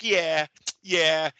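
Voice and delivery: a light mock of Tank's lazy yeah; drawn-out yeah in a borrowed voice; Tank's funny voice. Host lightly mimicking Tank's yes to the reporter. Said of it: "Tank kinda talks funny".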